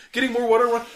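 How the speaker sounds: ordinary talk, nothing marked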